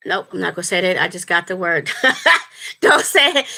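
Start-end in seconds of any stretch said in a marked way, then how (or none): 1.9-2.7 a quick, high burst of laughter; a sudden giggle, pitched up; startled high laugh. Real, not acted. Catches herself, laughs. 2.8-3.5 laughing warning to self. Real, not acted. Stops herself mid-sentence.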